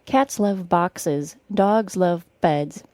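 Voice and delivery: slow, careful model sentence; practice sentence. Shown as a demonstration. Teacher gives learners today's practice sentence, slow and careful. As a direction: say it slowly for learners to copy. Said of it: "Today's practice sentence will be".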